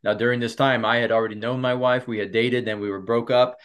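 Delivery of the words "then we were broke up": usual speaking voice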